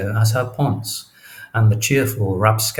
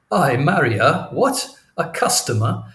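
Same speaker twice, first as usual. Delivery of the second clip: incredulous; 5 semitones higher than usual. Acted. Cassio scoffs at marrying her.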